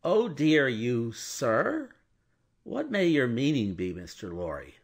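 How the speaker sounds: a touch of a blustering lawyer; affronted. Acted. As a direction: challenge him, stung. Stryver affronted by Lorry's doubt.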